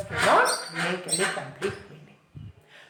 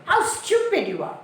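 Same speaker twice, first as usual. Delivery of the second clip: mild mock irritation; 8 semitones higher than usual. Shown as a demonstration. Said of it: "I'm getting angry or irritated".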